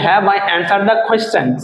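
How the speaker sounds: very slow, each word laid out clearly; slow model sentence. Shown as a demonstration. Teacher reading an English example slowly to students. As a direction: spell it out slowly for learners. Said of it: "teacher models English sentences".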